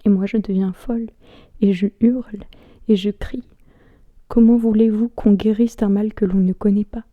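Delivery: halting stage monologue with long pauses; spoken-word recital, letting each image hang; dramatic monologue. Acted. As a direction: perform it as a brooding theatrical soliloquy.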